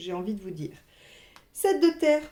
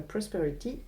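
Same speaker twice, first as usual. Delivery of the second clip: English word in a French accent; 6 dB quieter than usual. Real, not acted. Reader apologising for her English accent, French-accented English. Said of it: "je suis désolée pour mon accent anglais".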